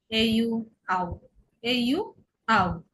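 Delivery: slow letters, then "আউ" as one glide. Shown as a demonstration. Teacher drilling the au rule, slow and separated. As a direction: spell "এ ইউ" slowly, then sound it "আউ". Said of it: "এ ইউ থাকলে আউ".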